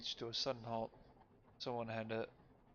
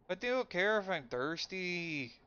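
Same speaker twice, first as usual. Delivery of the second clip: higher, louder, slow demand; 7 semitones higher, 8 dB louder, slower than usual. Acted. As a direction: press the question hard at the stranger. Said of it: "demanded the figure".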